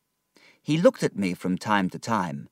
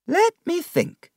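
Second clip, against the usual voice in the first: put-on higher old aunt voice, pondering; thoughtful aunt; 4 dB louder than usual. Aunt pondering David's future, thoughtful. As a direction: mull it over.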